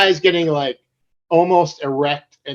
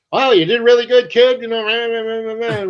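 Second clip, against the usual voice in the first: mock praise; 9 semitones higher, 5 dB louder than usual. Retelling the praise, babbled off.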